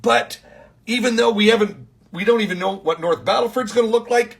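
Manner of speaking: emphatic preaching. Retold or imitated. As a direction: preach it out loud to the pastors. Retold preaching to pastors, emphatic.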